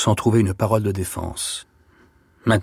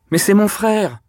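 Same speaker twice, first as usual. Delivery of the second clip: high, loud outraged protest; pained angry cry; 10 semitones higher, 5 dB louder than usual. A narrator's reading. Accused Denise defending herself, pained angry cry. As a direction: cry out in wounded anger, pitch leaping up. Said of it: "cria-t-elle avec la colère douloureuse".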